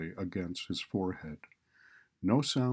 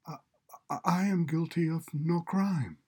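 weary resigned; 9 semitones higher than usual. A narrator's reading. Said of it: "protests in a muffled voice full of palpable weariness and resignation".

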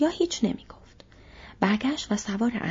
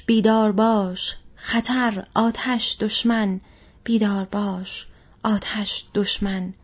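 alarm call; 4 dB louder, slower than usual. Acted. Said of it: "شیپور فراخوان باکلند".

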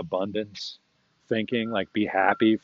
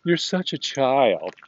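dismissive friend; 4 semitones higher, slower than usual. Retold or imitated. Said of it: "The summation was".

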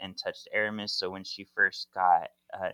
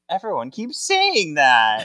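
weary Prue; 7 semitones higher, 8 dB louder than usual. Retold or imitated. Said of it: "And Prue goes".

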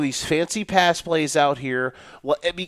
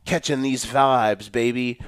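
mock cool-guy caption; 5 semitones lower than usual. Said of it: "they put some sort of caption like".

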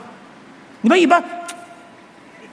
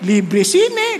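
ordinary delivery

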